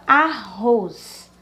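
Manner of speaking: "arroz" slowly, weight on the final "roz"; stress on last syllable. Shown as a demonstration. Teacher giving an oxytone example, last syllable stressed in "arroz". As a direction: split "arroz" and lean on its ending. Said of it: "ela é a mais forte".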